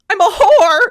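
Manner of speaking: high, loud line cracking into laughter; laughing mock squeal. Host quoting Sookie's outburst, laughing high. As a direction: squeal it through giggles. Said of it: "She goes".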